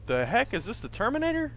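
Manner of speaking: high, loud, disbelieving yell; shocked shout. Real, not acted. Shocked at attacker.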